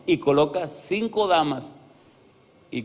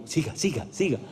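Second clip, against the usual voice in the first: softly urging "go on", imitating listeners; quiet little egging-on voice; hushed mimicry; 7 dB quieter than usual. Hushed congregation eager for gossip urges the pastor on, quietly. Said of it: "ustedes se quedan calladitos, como".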